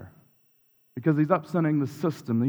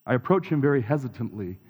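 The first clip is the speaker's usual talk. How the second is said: sighing, voice catching on the edge of tears; near tears. Real, not acted. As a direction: fight back real tears as you admit it. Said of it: "I don't know why I'm gonna cry".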